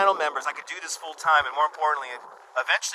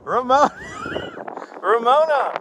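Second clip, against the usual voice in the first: excited shout-out; 5 dB louder than usual. Real, not acted. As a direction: call the name out, delighted.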